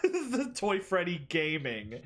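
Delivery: laughing through the words. Real, not acted. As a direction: chuckle it out slowly. Laughing at funny game image.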